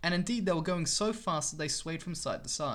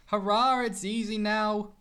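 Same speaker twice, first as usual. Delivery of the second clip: much louder, higher hurrah, then slow; joyful cheer; 5 semitones higher, 6 dB louder, slower than usual. Acted. James reaching the top, loud joyful cheer.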